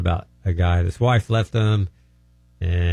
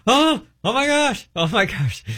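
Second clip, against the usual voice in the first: high, drawn-out hollered oh my gosh; hollering amazement. Retold or imitated. Pastor at the table hollering as the spirit leaves, high and stretched. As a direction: holler in shocked wonder. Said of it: "he starts hollering".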